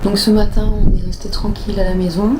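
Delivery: talking outdoors in strong wind; wind on mic. Real, not acted. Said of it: "m'entendre avec le vent".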